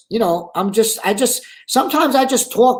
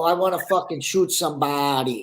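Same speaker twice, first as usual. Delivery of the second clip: quietly recited gangster line, lower and softer; recited movie line; 4 semitones lower, 5 dB quieter than usual. Shown as a demonstration. Reciting his Bronx Tale line for the host, low and soft. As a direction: murmur the famous line low, half-hearted. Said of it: "you wouldn't wanna recite that for us".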